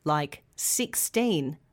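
put-on sixteen with a long, clear teen; stress on teen. Shown as a demonstration. Teacher showing learners the teen ending in sixteen. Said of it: "numbers that end in teen".

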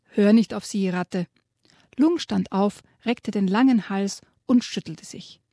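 lively reading to children, voicing the animals; storyteller's voice reading a children's book aloud; story narration. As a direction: read the dragon tale with relish to young listeners.

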